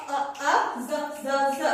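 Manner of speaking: A and Z as short, separate repeated sounds; sounding out. Shown as a demonstration. Teacher breaking a word up for children, sounding out. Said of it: "আমরা ভেঙে ভেঙে".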